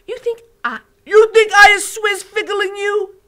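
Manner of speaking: loud, high indignant giant voice; offended giant. Acted. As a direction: bristle with hurt pride. BFG offended.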